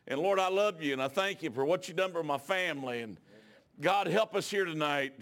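steady, fervent prayer voice; earnest prayer. Acted. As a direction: pray aloud to the Lord before the congregation. Pastor leads a prayer.

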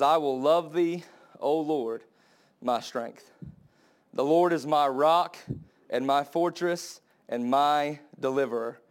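slow, reverent reading; solemn Bible reading; scripture reading. Acted. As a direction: read the psalm with reverence.

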